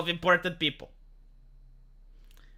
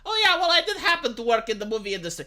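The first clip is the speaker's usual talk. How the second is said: casual mock quote; 3 semitones higher, faster than usual. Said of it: "they're so fucking casual about it".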